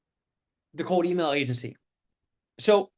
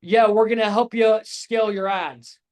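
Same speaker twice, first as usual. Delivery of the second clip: vague pitch; 2 semitones higher than usual. Shown as a demonstration. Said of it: "I'm not just saying".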